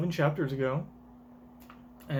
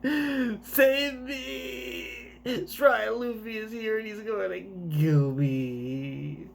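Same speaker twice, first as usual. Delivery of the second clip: high panicked character voice; 6 semitones higher, much slower than usual. Acted.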